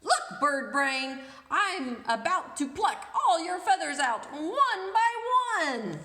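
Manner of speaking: hissed threat. Acted. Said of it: "the princess hissed".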